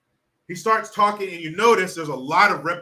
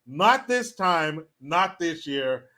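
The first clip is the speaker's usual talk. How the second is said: corrected version; much slower than usual. Shown as a demonstration. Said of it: "what he was supposed to say was".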